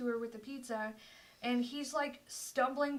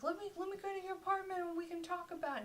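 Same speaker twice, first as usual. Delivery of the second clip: put-on drunk guy; 6 semitones higher, faster than usual. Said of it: "he was like".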